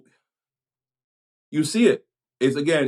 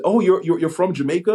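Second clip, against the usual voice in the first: a retold "oh, really?" lift in pitch; mock surprise; 8 semitones higher, 4 dB louder, faster than usual. Folks learning he was born in Jamaica, mock surprise. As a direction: imitate surprised folks, higher and louder. Retold reaction to his birthplace.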